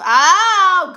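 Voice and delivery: high loud laughing oh. Real, not acted. Amused at a viewer calling her a Goodfellas wife, loud laughing oh. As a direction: burst out laughing on the oh.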